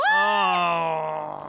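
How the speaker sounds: a loud, sudden oh of surprise; real jolt of surprise; startled oh. Real, not acted. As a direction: blurt it out, caught off guard. Shock at surprising quiz answer.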